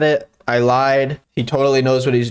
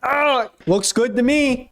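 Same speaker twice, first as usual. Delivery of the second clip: high, slow relieved approval; pleased; 12 semitones higher, slower than usual. Acted. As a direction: sound pleasantly impressed. After drop test, pleased.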